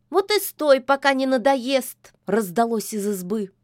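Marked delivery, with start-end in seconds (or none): 0.1-2.1 higher, louder retort from inside; shouting back. A narrator's reading. The witch yells back at Koschei from the hut. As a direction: snap back at him through the door.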